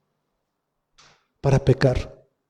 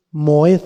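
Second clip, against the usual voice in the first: moed with the accent on its E, mo-ED; stress on the E of moed. Shown as a demonstration. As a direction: lean on the second syllable of moed. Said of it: "con acento en la E".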